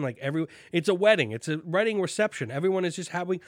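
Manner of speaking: drifting up in pitch without meaning to; suddenly sounding like someone else; odd voice. Real, not acted. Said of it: "I don't know why I started talking like this".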